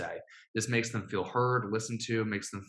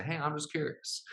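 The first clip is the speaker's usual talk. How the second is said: lilting, higher friendly ask; light curious tone; 5 semitones higher, 4 dB quieter than usual. Shown as a demonstration. Coach modelling a friendly opener, lightly curious. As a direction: sound casually curious. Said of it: "you can say".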